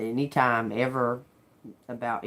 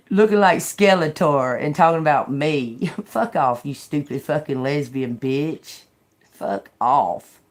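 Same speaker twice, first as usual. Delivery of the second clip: loud laughing insults; swearing tirade; 5 dB louder than usual. Real, not acted. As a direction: hurl the insults loudly while laughing.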